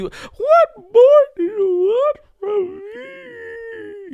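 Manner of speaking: very high, slow, acted sobbing wail, me stretched. Retelling an emotional on-camera rant: imitating a singer crying. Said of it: "when he was doing the crying, y'all know the crying".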